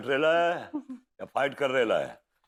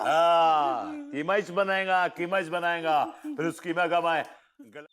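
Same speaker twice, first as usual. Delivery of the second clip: long drawn-out yes, then higher insistence; menacing confirmation; 5 semitones higher than usual. Acted. Confirms he will make कीमा of him, insistent threat. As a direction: hammer the threat home in a raised pitch.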